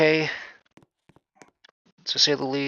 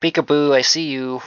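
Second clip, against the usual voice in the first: creepy singsong; 3 semitones higher, 4 dB louder than usual. Pretend. Teasing a spooky figure.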